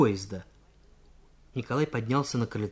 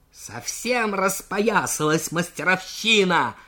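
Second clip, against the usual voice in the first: higher, slow, outraged cadet; indignant scolding; 6 semitones higher, slower than usual. Acted. Junker railing at the insolent worker, slow indignant scolding. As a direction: spit it out with contempt.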